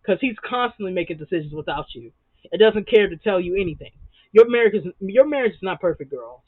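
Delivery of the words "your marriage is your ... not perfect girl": louder, firm telling-off; loud no-nonsense scold. Pretend. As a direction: lay down the truth to her. Scolding the cast member directly.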